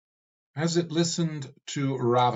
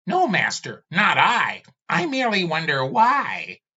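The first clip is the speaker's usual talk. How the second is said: high, louder, anxious plea; pleading servant skull; 7 semitones higher, 7 dB louder than usual. Acted. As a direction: beg your master to stop. Skull answers timidly.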